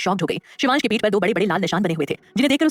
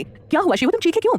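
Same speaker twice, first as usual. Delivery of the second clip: high, anxious question; worried; 8 semitones higher than usual. A narrator's reading. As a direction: fuss over the child with mock concern. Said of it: "फिक्र भरी आवाज में".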